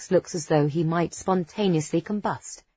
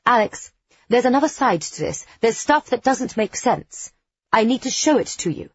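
urgent pleading; 6 semitones higher than usual. A narrator's reading. She insists urgently.

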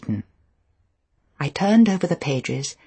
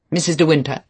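incredulous; 6 dB louder, faster than usual. A narrator's reading. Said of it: "the voice incredulous, slightly raised".

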